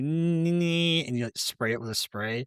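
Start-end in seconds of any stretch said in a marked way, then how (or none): 0.0-1.1 high, sustained "nee" buzz; imitated bee whine. Cohost imagining bees outside, imitated high whine. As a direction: mimic a tiny insect's whine. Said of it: "and it's like".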